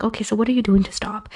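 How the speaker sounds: calm reassuring ask; gentle question. Shown as a demonstration. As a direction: ask kindly, no pressure. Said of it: "say in a gentle manner".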